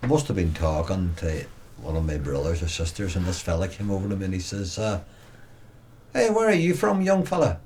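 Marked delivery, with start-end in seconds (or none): 6.1-7.6 put-on friendly Tyrone accent greeting a stranger. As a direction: call out to the boy like a Tyrone man abroad. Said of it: "I instantly recognised this Tyrone accent".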